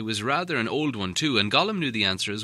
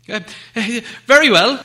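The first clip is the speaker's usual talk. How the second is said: hesitant agreement; 12 semitones higher, 11 dB louder than usual. Acted. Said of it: "said Bilbo".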